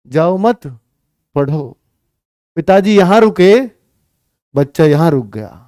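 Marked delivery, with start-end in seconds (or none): 0.1-1.8 जाओ मत joined, break, lower पढ़ो; pause after मत. Shown as a demonstration. Teacher corrects to father's meaning, pause after मत. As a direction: keep मत with जाओ, set पढ़ो apart. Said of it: "उल्टा ही कह रहे थे".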